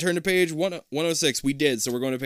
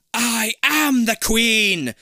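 slow, booming monster queen, much louder and higher; thundering; 11 semitones higher, 10 dB louder, much slower than usual. A narrator's reading. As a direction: roar it out slowly, leaning on AM. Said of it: "the creature thunders".

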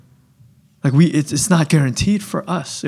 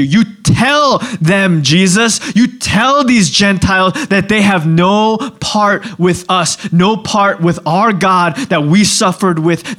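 cheering crowd; 3 semitones higher than usual. Acted. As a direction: cheer him on with stretched, punched words. Acting cheering crowd urging Jesus on.

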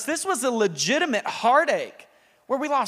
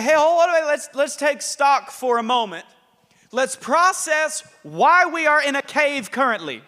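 emphatic God voice; 4 semitones higher, 4 dB louder than usual. Acted. God challenges Elijah in the cave.

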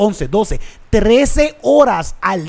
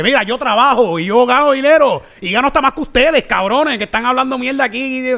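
mock confrontation; 5 semitones higher than usual. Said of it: "a confrontar a esta gente".

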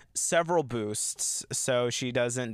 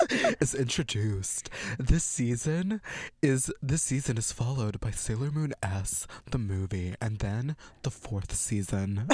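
drag queen voice; 3 semitones lower than usual. Pretend. Host finishing the synopsis for co-host, light drag queen voice. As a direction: draw it out with a hint of drag queen.

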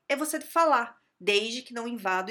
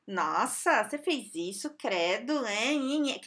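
whiny mock critic ending in a nhe nhe; mocking nag; slower than usual. Mimicking coworkers who only criticize, in a whiny mocking tone. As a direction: parody the nitpicker.

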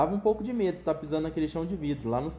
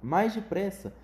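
higher, urging call; mild mock shout; 5 semitones higher, slower than usual. Wonka banging the walls, mildly shouting. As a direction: urge the lift on, lightly. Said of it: "gritava o senhor Wonka".

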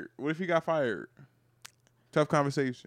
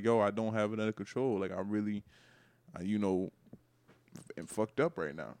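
low, soft, halting admission; confessing boyfriend; 9 semitones lower, 10 dB quieter than usual. Acted. Boyfriend confessing to his trusting girl, subdued. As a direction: own up quietly, hesitating, as a man in trouble. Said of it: "be like".

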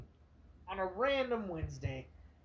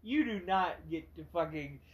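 ranting; 4 dB louder than usual. Retold or imitated. Ranting at the customer in his head.

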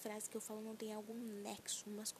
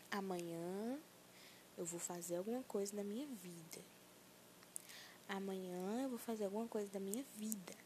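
personal mantra; 2 semitones lower than usual. Acted. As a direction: chant it like a mantra. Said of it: "vamos começar aqui um mantra pessoal".

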